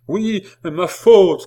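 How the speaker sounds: high, loud, drawn-out outcry; slow, impassioned shout; insistent cry. A narrator's reading. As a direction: cry it out while writhing. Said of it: "continua Jeanne, se tordant toujours".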